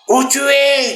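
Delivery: the furious wife answering the phone; mock wife screaming où tu es; angry wife.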